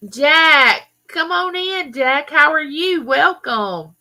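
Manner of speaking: high, loud hello to a newcomer; excited welcome. Real, not acted. Host greeting viewer Jack in live chat, excited high welcome.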